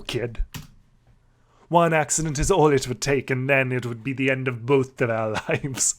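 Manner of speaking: a hint of a tough biker bird lecturing; lightly voiced stern sparrow. Sparrow warning about accidents, lightly gruff. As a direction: warn the kid, half-hearted gruff. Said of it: "What am I doing with this voice?".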